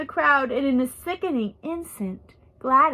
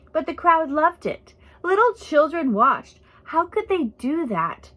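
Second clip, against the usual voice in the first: a touch of tearful protest, raised; still sobbing; 4 semitones higher than usual. A narrator's reading. Girl protests to Missus Lawson through tears, mildly tearful. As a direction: plead through light tears. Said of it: "still sobbing".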